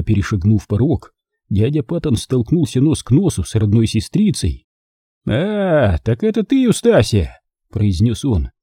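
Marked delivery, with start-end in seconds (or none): 5.3-7.4 high, pointed greeting; wry recognition. A narrator's reading. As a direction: greet the sister with rising disdain. Uncle recognises his sister.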